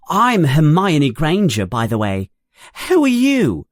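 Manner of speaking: rattled off in a lightly quickened rush; very fast. A narrator's reading. Eager girl introducing herself to the boys, a bit fast. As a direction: gush it out, barely stopping for air. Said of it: "She says all this very fast".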